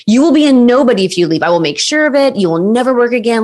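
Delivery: threatening the model as she walks out, mildly aggressive; aggressive threat. Retold or imitated. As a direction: retell his threat with mild menace. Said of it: "He was so aggressive".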